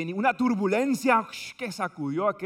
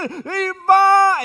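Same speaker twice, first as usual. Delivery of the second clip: much higher, louder call; Latin commentator; 11 semitones higher, 12 dB louder than usual. Retold or imitated. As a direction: launch the play like a radio narrator. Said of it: "narrador de Latinoamérica que dice".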